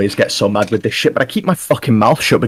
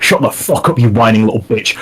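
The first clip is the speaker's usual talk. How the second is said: angry shout. Acted. Partner cuts him off yelling.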